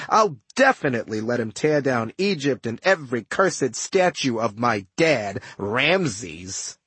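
sly, boastful ghost with a sneer; smug villain voice. Acted. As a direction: gloat like a scheming ghost. Narrator voices smug Setna.

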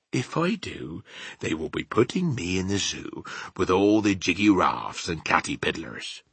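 lightly voiced rustic giant; BFG, worried. Giant telling Sophie he would end in a zoo, worried. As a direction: explain the danger as a simple giant.

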